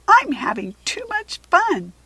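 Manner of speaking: cheeky cub voice; sassy tiger cub. A narrator's reading. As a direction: tease them from the cave. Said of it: "Sheba's growl was sassy".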